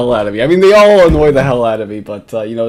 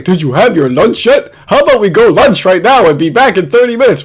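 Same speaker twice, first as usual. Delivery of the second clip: higher, mildly whiny mock of the guy; mocking quote; 5 semitones higher, 4 dB louder than usual. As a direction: parody his nagging lunch question. Mocking the chat log guy.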